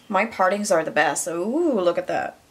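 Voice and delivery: dry mock praise; sarcastic, faking delight. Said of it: "I'm being sarcastic".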